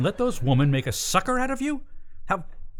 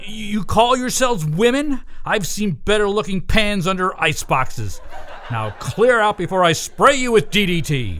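angry dressing down; 4 semitones higher, 4 dB louder than usual. Pretend. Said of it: "I'll read them the riot act".

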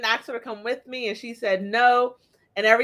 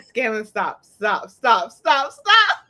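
pleading yell; 5 dB louder, much slower than usual. Retold or imitated. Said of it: "And I was like".

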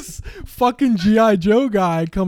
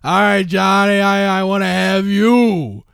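put-on drunk; 4 dB louder than usual. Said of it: "like, drunk".

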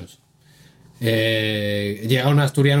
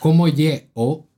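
Asturian greeting, pitched up and rising; 5 semitones higher, 3 dB louder than usual. Shown as a demonstration. Repeating for a puzzled friend, in Asturian speech. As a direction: say it like an Asturian, higher, word by word. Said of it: "alguien que te dice".

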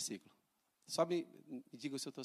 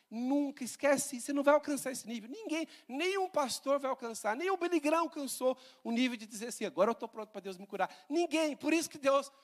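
high, loud fervent preaching; preaching at full force; 7 semitones higher, 4 dB louder than usual. Acted. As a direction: hammer it home to the congregation. Pregação exaltada. (pregação inflamada, mais aguda e mais alta)

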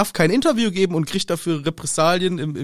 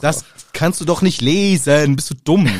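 louder, taunting singsong; mocking mimic; 5 dB louder than usual. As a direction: ape her like a sneering kid. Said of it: "er macht auch noch den Nachäffer". (spöttisch nachäffend)

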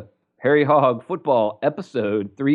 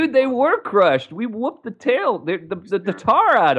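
excited gloating; 9 semitones higher than usual. Real, not acted. Gloating with high pitch.

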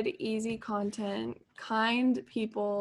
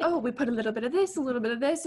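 mock Australian; much faster than usual. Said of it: "She's like".

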